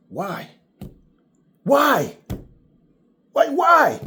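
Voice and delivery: each why climbing to a shout; rising incredulous shout at a friend; exasperated yell. Retold or imitated. Exasperated retold rant at friend.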